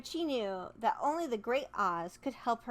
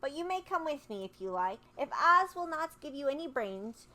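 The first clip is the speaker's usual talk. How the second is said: put-on girl voice; 4 semitones higher than usual. Dorothy's girl voice.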